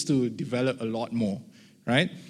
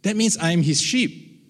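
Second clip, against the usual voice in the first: prayer; 2 semitones higher than usual. Shown as a demonstration. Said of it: "Then I begin to wait".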